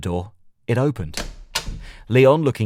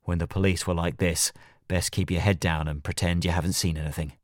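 plain reading voice

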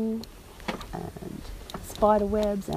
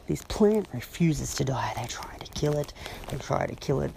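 whispering; 3 semitones lower than usual. Real, not acted. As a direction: hush it like a secret. Whispered aside about the plant.

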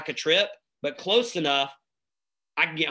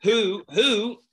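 laughing; 7 semitones higher, 4 dB louder than usual. Real, not acted.

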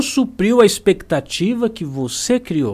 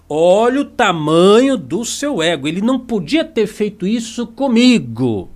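mock boasting ego; 4 semitones higher, 3 dB louder than usual. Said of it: "aumentar a abertura do braço".

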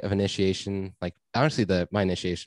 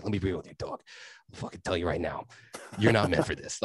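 lightly imitated Boston street-kid accent; softer, half-attempted Boston accent; 3 dB quieter than usual. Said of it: "I'll, I'll try and get his accent".

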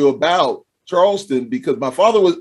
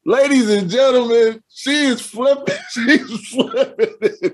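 announcer voice; 3 semitones higher, slower than usual. Pretend. Announcing to mock audience.

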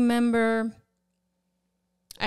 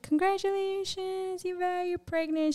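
mock congratulation; 10 semitones higher, 5 dB quieter than usual. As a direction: imitate a delighted well-wisher in a high voice. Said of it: "And she's like".

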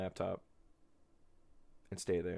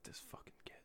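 hushed, secretive whisper; soft conspiratorial whisper of grandma's true thoughts; imagined grandma's inner voice; 7 dB quieter than usual. Retold or imitated. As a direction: whisper it like her hidden thought. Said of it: "What she really was thinking".

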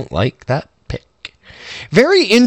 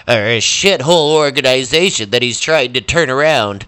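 cartoon voice; 3 semitones lower, 4 dB louder than usual. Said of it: "your actual voice. You should actually have that other voice".

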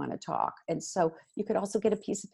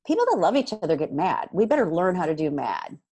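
1 loud parent talk; 6 dB louder than usual. Shown as a demonstration. Parent script spoken to kids.

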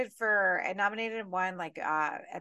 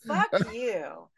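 mock angry cursing; 3 dB louder, slower than usual. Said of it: "I was so mad".

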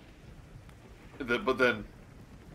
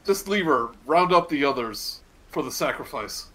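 shouted command, higher and louder; yell; 3 semitones higher, 6 dB louder than usual. Acted. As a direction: yell the orders across the hall. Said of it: "You just hear him yell".

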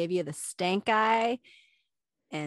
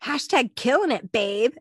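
cheery encouraging boost; upbeat; 4 semitones higher, 4 dB louder than usual. Retold or imitated. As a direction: hype her up, playful. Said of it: "trying to lift my spirits".

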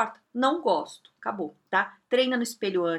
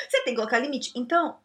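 ordinary talk

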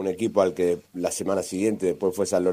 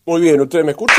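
yawning; 8 semitones higher, 9 dB louder than usual. Real, not acted. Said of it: "lo escuchamos medio con, con un bostezo".

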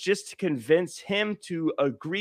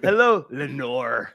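slow mock Irish greeting; Liam Neeson; 3 semitones lower, slower than usual. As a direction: imitate an Irishman's accent, drawn out. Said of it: "he'd be like".

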